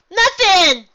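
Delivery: high, loud happy call to her daughter; joyful cry. A narrator's reading. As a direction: mom calling out in delight. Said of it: "Ditsy replied".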